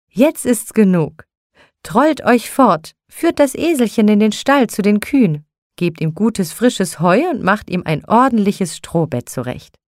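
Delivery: a hint of a mistress shooing servants; commanding Frau Holle. Frau Holle sending the angels off, firm commands. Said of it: "Da rief Frau Holle".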